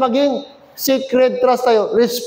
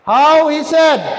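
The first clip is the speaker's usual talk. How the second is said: raised, ringing recitation; emphatic scripture reading; 6 semitones higher, 4 dB louder, slower than usual. Real, not acted. Preacher leads church reading Christ's words, emphatic. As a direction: lift the pitch and punch the verse.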